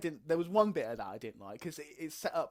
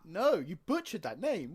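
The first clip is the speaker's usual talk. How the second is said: louder, higher, drawn-out amused objection; laughing protest; 6 semitones higher, 6 dB louder, slower than usual. Real, not acted. Co-host teasing a botched name, laughing protest. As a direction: tease through laughter, slowly.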